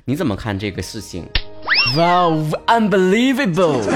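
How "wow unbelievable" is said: drawn-out, higher, exaggerated wow; mock surprise. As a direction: act stunned in disbelief. Mock astonishment at the question.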